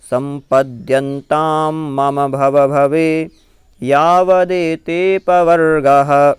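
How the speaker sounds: fuller chant of the whole verse; full verse recital. Shown as a demonstration. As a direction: recite it through, a bit stronger.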